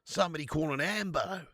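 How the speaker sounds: put-on jokey broad Australian accent; Aussie impression. Streamer calling for an ambulance, mock Australian accent. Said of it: "Do an Aussie impression?".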